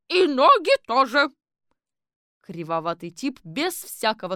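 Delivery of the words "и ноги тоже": higher, louder follow-up order; shouted addition. Acted. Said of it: "А потом добавила". (громкий высокий выкрик)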